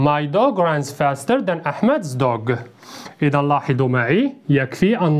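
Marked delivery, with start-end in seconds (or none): 0.1-2.5 slow and lower, a careful repeat; slow model sentence. Shown as a demonstration. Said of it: "model sentence repeated lower".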